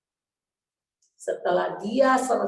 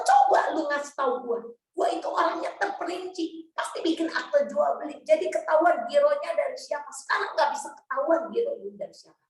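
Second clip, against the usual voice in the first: retold angry rant; 6 semitones higher than usual. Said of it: "saya marah semarah-marahnya".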